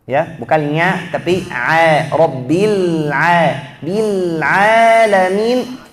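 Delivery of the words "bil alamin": Bil alamin closing the lips early, slow; teacher demos the early lip close; wrong nun into mim. Shown as a demonstration. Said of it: "jangan baca al alamin".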